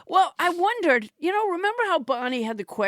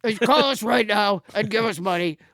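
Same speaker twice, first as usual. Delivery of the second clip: Trump fixer voice. Retold or imitated. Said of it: "it's one of Trump's fixers".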